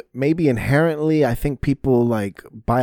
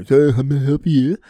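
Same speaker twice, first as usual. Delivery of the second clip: mock assistant voice, a touch higher; lightly imitating a chirpy phone assistant; obnoxious British Siri; 4 semitones higher, 5 dB louder than usual. Mocking the British Siri voice that got obnoxious. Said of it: "he just got in there".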